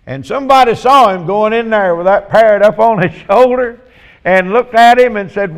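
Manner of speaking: ordinary talk, nothing marked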